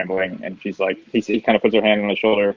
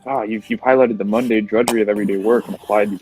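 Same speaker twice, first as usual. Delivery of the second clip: pompous art critic. Acted. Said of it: "mouthing all these art terms".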